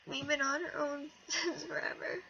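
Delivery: laughing through tears; a tearful laugh breaking through; crying laugh. Real, not acted. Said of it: "trying not to cry".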